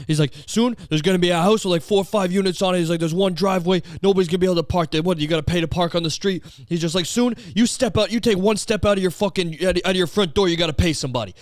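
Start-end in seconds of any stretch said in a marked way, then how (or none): 0.5-2.8 raised-pitch mock ranting; exasperated imitation of a ranter; imitated tirade. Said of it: "a tirade about". 3.0-6.4 mock rant in a raised pitch; worked-up imitation, pressing each grievance; imitated tirade. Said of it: "a tirade about". 7.1-11.3 high mock rant easing down at the end; exasperated, worked-up imitation; imitated tirade. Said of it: "a tirade about".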